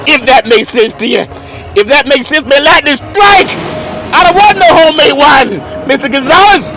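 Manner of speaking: loud, high-pitched comic protest; mock indignant outburst. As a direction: holler it like a hammed-up tirade. Mock outburst at Mister Gonzalez.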